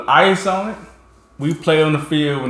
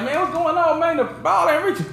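mock complaint; 10 semitones higher, 4 dB quieter than usual. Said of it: "We was like".

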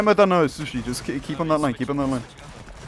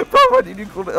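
laughing; 8 dB louder than usual. Real, not acted. Laughing after voice crack.

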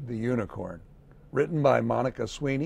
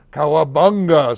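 surfer cheer; 2 semitones higher, 11 dB louder than usual. A narrator's reading. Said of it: "said the green crayon".

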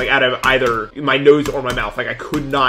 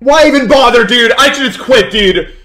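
mock despair; 10 semitones higher, 9 dB louder than usual. Real, not acted. Dies again, mock despair.

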